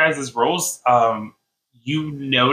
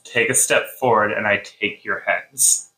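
wolf voice; 4 semitones lower than usual. Acted. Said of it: "She growls at you one more time and says".

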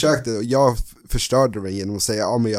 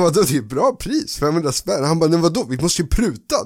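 excited; 6 semitones higher than usual. Retold or imitated. Retelling an argument with dad.

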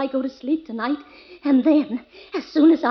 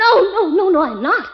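raised, hurried protest; frantic denial; 4 semitones higher than usual. Acted. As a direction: deny it in a panic. Frightened wife denying she is hungry.

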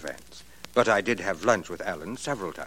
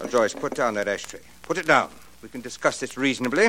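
nervous pleading; 2 semitones higher, faster than usual. Acted. Joyce threatens him with ashtray.

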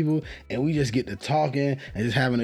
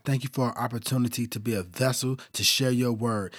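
prayer. Real, not acted. Opening prayer for the show.

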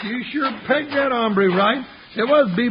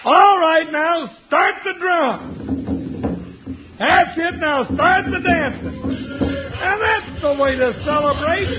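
excited calling out; 4 semitones higher than usual. Acted. Sidekick leads a celebration.

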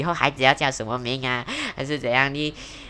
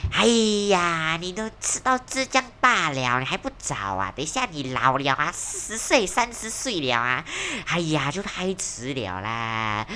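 nagging relative; 2 semitones higher than usual. Retold or imitated. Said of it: "他就会讲说".

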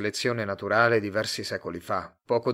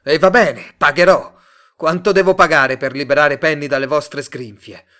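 loud, raised, angry outburst; shouting; 4 semitones higher, 13 dB louder than usual. A narrator's reading. Simon offering to pay to free Penny, shouting. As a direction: yell it in furious exasperation. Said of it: "gridò Simon".

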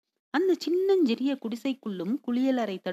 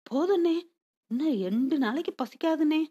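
put-on flustered boy; 6 semitones higher than usual. A narrator's reading. Small boy refusing more food from Murugan, flustered. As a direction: protest in a fluster, pitched up. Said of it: "சிறுவன் பதறி".

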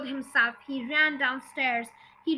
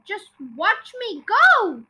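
slow, loud, high boast; triumphant call; 5 semitones higher, 6 dB louder, slower than usual. A narrator's reading. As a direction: call it down, stretching each word. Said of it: "she called down to George".

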